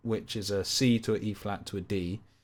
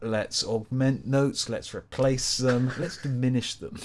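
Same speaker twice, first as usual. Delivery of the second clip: louder hammed-up rallying; mock gung-ho; 3 semitones higher, 5 dB louder than usual. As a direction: rattle off the plan with mock gusto. Acts out breaking out jazz chords.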